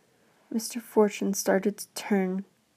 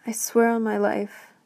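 hasty; 4 dB louder than usual. Acted. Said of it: "answered Mister Fortune hastily".

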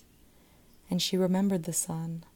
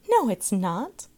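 put-on children's cry; 3 semitones higher, 6 dB louder than usual. A narrator's reading. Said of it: "the children cried".

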